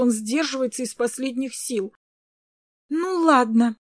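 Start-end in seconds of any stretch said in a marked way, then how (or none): 2.9-3.8 crying. A narrator's reading. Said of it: "вдруг заплакала Крис".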